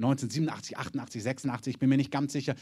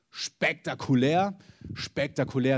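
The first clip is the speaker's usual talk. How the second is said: mock amazement; slower than usual. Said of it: "dachten sich die anderen".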